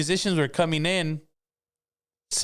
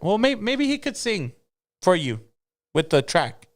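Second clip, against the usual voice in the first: Boss Lady's voice; 7 semitones higher than usual. Retold or imitated. Voicing Boss Lady.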